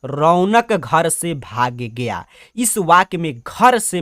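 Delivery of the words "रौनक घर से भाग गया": slow dictation. Shown as a demonstration. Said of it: "प्रश्न कह रहा है".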